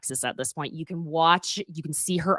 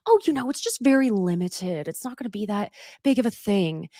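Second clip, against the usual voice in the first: downplaying. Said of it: "downplaying it".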